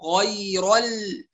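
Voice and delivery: slow "غير ال" with a thin held "ل"; light laam. Shown as a demonstration. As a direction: switch from dark "ر" to light "ل" in "غير ال". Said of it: "هكذا". ("غير ال" بلام مرققة)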